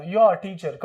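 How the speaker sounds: "You are" blended together with a silent r; linked YOU ARE. Shown as a demonstration. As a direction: run "You are" into one glide before teacher. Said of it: "इसको दोनों को एक साथ मिला दो". ("You are" को मिलाकर, बिना र के)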